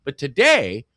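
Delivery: blocked nose, cold in the head; stuffed-up nose. Real, not acted. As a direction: talk through a stuffy cold. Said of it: "I'm just stuffed up".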